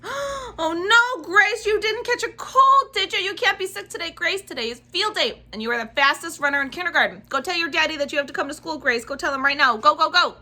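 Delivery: high, loud worried pleading; alarmed panic. Acted. Junie B. panicking that Grace is sick on field day, high and loud. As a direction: gasp and beg her not to be sick. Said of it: "I did a gasp".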